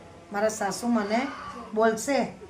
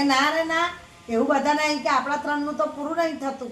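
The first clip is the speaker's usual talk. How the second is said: sharp refusal; 4 semitones higher than usual. Acted. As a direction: shut her down flatly. Mother-in-law refuses.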